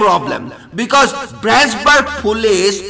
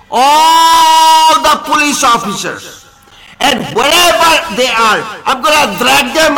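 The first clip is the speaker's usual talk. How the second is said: angry shout; 3 semitones higher, 3 dB louder than usual. Real, not acted. Threatening rant at police.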